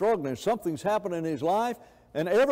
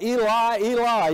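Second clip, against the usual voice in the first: loud, higher cry of Eli; Jesus crying from the cross, loud and high; 5 semitones higher, 6 dB louder than usual. Acted. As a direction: call Eli out in agony. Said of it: "He cries out".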